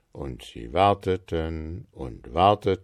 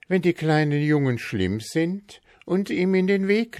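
matter-of-fact wife; 10 semitones higher than usual. A narrator's reading. Frau Marker explains.

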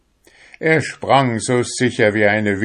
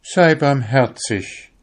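higher, louder begging plea; 7 semitones higher, 4 dB louder than usual. A narrator's reading. The soul begs the fisherman for mercy, imploring. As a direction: beg for mercy. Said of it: "bettelte die Seele".

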